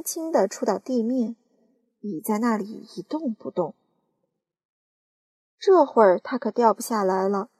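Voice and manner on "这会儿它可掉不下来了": calling out. Acted. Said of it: "叫道".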